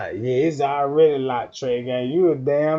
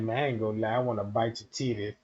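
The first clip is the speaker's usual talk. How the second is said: lower, soft blunt confession; 6 semitones lower, 7 dB quieter, faster than usual. Retold or imitated. A man confessing his urge to her, low and soft. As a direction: say it low and shameless. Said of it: "he like".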